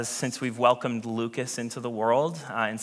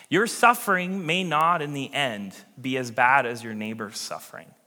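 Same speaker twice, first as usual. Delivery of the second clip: ordinary talk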